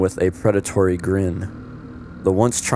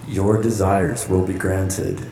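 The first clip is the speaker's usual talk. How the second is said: sinister host voice. Acted. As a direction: draw out the command like a dark host. Host gloats over trapped guests.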